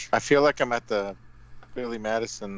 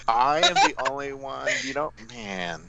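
put-on Sebastian accent; slower than usual. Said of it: "Do the Sebastian accent".

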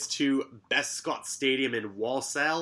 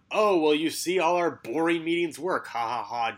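lampoon him with a higher, gloating voice and a fake laugh; mocking Van Gaal; 5 semitones higher than usual. Host mocking Van Gaal jabbing at the media, higher gloating voice. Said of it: "Van Gaal is saying".

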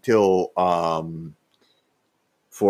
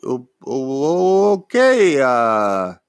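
flustered stammer; 6 semitones higher, 3 dB louder than usual. Retold or imitated. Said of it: "I'm like".

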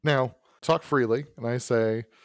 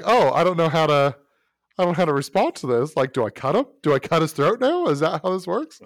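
higher, louder, fast flustered inner voice; mock bewildered panic; 4 semitones higher, 5 dB louder, faster than usual. Voicing the knife-wielder unsure what to do. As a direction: rush it like a thug with no plan. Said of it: "So it's like".

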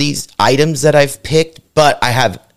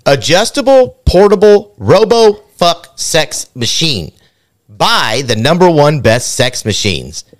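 game show announcer; 4 semitones higher than usual. Pretend. Retake of the item announcement.

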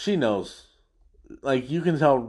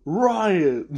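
louder, higher hey riot; mock rally yell; 6 semitones higher, 4 dB louder than usual. Retelling the favorite joke, shouted with glee. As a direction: shout it out again for fun.

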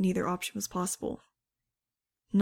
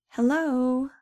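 bright, loud, high hello; cheerful call; 5 semitones higher, 6 dB louder than usual. Acted. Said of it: "the woman called cheerfully".

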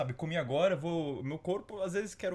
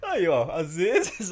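laughing; 3 semitones higher, 6 dB louder, much slower than usual. Real, not acted. Laughing slowly.

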